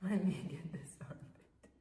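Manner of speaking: said through a laugh; laughing while grooming the cat. Real, not acted. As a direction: giggle the words out.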